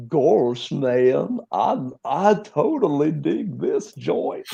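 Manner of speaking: slow dreamy stoner drawl; slow and spaced-out like a hippie. Acted. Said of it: "It'd be like".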